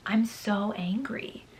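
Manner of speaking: soft whisper, slow; slow whispered confession of anger. Real, not acted. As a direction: hiss the words under your breath. Whispered frustration after review.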